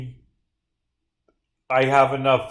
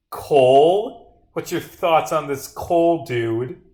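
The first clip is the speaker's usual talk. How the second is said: mock surprise; 3 semitones higher, 6 dB louder, much slower than usual. Mock awe repeated, questioning.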